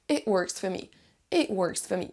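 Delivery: WORKS as 'wurks', FOR weak 'fuh'; repeat-after-me model, FOR reduced before ME; linked 'it wurks fuh me'; pronunciation model. Shown as a demonstration. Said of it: "la prononciation et l'intonation".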